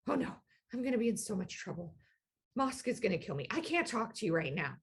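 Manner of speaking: mildly panicked, hurried little goblin; terrified goblin. Acted. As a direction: play a touch of fearful fretting, quickly. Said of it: "this wave of terror crashes over him".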